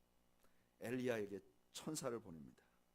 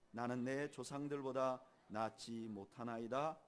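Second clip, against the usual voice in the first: scripture reading. Acted.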